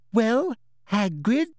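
high, drawn-out condescending prompt; patronising inspector, very slow; loud, slow voice. A narrator's reading. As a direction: speak as if to someone dim. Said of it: "in that loud, slow voice".

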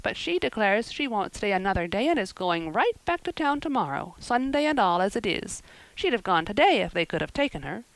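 brisk village busybody telling her news; lightly voiced gossipy neighbour. Neighbour gossiping about the trouble, lightly voiced and knowing. Mrs Lynde scolding Marilla.

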